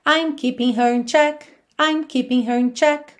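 shorter ending. Shown as a demonstration. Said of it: "vai ficar mais curtinho".

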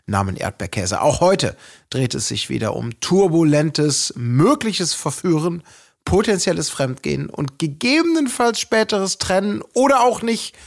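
slow, drawn-out podcast welcome; host's theatrical episode intro; show opening. Acted. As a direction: announce it grandly, stretching key words, rising toward the end.

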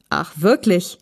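pleased, flattered little question. A narrator's reading. Visitor hears they are big fans, flattered. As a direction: take the compliment with coy surprise. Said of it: "fragte André Minninger geschmeichelt".

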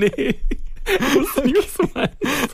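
high-pitched laughing through words. Real, not acted. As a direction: talk through a fit of giggles. Laughing hard while answering.

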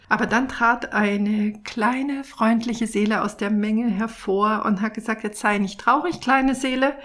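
gentle storytelling read aloud; story narration. A narrator's reading. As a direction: read it like a children's picture book. Reads picture book story aloud.

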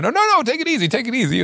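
high, soothing Hollywood star voice; high mock calm, waving it off; Keitel reassuring. Keitel calming the nervous German guest, high and soothing. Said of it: "Und dann meinte ich so".

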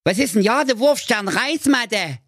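astonished. Acted. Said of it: "fragte ... erstaunt".

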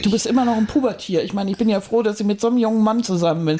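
fast stagey teasing; hammy stage actor. Acted. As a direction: rattle off the mock complaint. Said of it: "theatralischen Einstieg".

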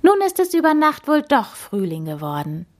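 high, excited voice; delighted, high-pitched news; enthusiastic. A narrator's reading. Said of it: "rief sie begeistert".

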